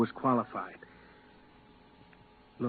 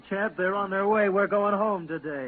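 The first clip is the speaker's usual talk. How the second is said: much higher and louder, slow on going home; overjoyed; 9 semitones higher, 6 dB louder than usual. Acted. Man telling Chap they are going home, overjoyed. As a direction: savour the news with joy.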